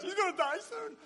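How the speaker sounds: high teasing whimper of worry; mock the fretting audience; lightly voiced worried listener. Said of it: "I saw all these tears".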